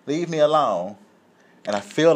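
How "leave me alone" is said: high-pitched mock refusal; imitating defiant woman. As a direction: refuse the officer in a raised old-lady voice. Retold refusal to police officer.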